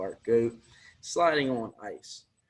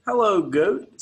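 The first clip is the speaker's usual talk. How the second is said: bright, raised duck voice, higher and louder; duck's greeting; 6 semitones higher, 7 dB louder than usual. Acted. Duck on the bike greets the goat, higher and louder. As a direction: duck calls hello to the goat.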